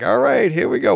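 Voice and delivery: putting on show energy. Retold or imitated. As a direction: psych yourself up to go on. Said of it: "putting your makeup on".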